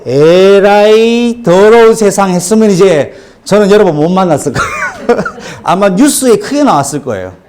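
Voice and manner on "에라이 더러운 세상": mock disgust. Mock curse at the world.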